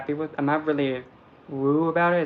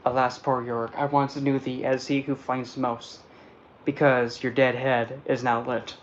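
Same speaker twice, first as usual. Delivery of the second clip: soft Shakespeare recitation; 4 dB quieter than usual. Acted. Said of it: "sounded pretty good".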